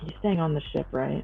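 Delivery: quiet mutter under the breath. Asking about another character in a roleplay scene: said under the breath. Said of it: "And I say under my breath".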